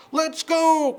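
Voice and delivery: very high, loud duck voice; eager quacking duck. Acted. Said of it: "quacked Ducky Lucky".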